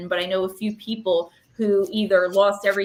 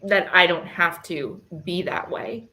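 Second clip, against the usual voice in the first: emotional; 2 semitones lower than usual. Real, not acted. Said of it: "very emotional".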